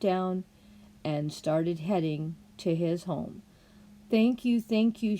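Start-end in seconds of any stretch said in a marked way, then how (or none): 4.1-5.2 put-on grateful girl. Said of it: "she kept saying".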